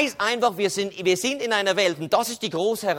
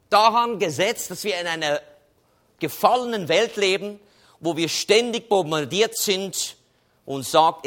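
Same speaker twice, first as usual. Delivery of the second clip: ordinary talk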